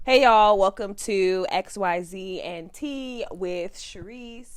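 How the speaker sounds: punched greeting, then slow welcome; podcast intro. Shown as a demonstration. Second take of the podcast intro.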